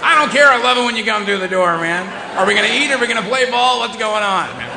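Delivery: high, loud, gushing dog; the dog can't contain its joy; overjoyed dog voice. Retold or imitated.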